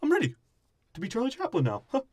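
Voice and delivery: high-pitched, hammed-up pirate impression; Jack Sparrow. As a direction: play it up in a high, silly voice. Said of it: "And Sparrow's like".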